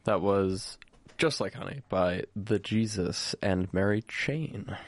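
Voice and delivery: slow, measured radio back-announce. Pretend. Student host back-announcing a song to listeners, radio voice. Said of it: "It's really good radio voice".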